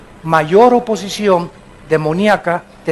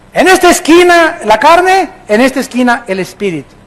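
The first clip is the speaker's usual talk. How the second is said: lucha libre announcer; 4 semitones higher than usual. Pretend. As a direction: introduce the corners like a boxing MC. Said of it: "Hay cuatro esquinas en un ring". (presentador de lucha libre)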